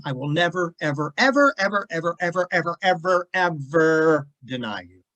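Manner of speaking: mock boisterous repeated ever; emphatic vow. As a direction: punch each ever like a boast. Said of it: "He was loud".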